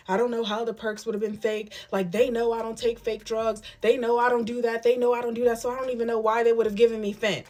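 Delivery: imitating the husband. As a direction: play him as innocent and wounded. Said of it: "The Menace was now looking at me and was like".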